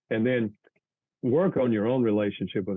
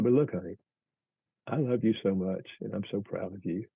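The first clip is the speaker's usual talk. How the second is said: loving reassurance; 2 semitones lower, 4 dB quieter than usual. Pretend. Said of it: "you do it in love".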